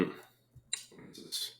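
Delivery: slow, breathy whisper to himself. Real, not acted. Puzzling over a clue.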